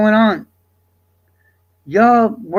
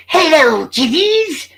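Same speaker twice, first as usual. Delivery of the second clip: high, louder cackly ghoul greeting; Crypt Keeper; 8 semitones higher, 5 dB louder, much slower than usual. Retold or imitated. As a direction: greet like a creepy crypt host. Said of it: "my Crypt Keeper is fucking".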